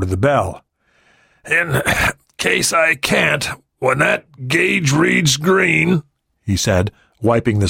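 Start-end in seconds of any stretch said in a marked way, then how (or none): 1.4-6.0 wounded pilot voice. Acted. Wounded pilot giving instructions.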